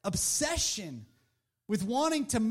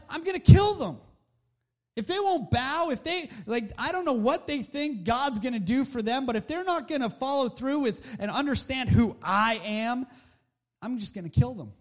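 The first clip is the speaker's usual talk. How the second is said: furious Haman. Retold or imitated. Haman deciding to kill the Jews, mock furious vow. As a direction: spit out the threat of killing. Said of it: "he decides".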